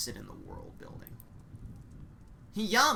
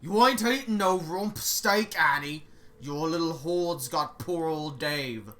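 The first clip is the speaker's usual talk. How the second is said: scolding cook; 4 dB louder than usual. Acted. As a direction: tell off the cannibal like a stern matron.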